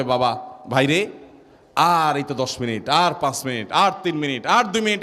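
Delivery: low, coaxing reassurance, lifting at the end; consoling. Acted. Grandfather consoling the fasting child before the call to prayer, low reassurance. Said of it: "সবাই সান্ত্বনা দেয়".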